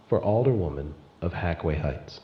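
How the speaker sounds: measured campaign address, held back; Anita Indigo speech. Acted. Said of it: "you can hear Anita Indigo saying".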